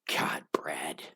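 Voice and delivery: a real remorseful whisper; whispered to himself. Real, not acted. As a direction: hush it out to yourself in self-reproach. Remorse over an unanswered letter.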